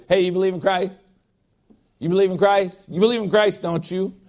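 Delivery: mock eager interrogation; pushy insistent questioning. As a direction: press her for the answer you want.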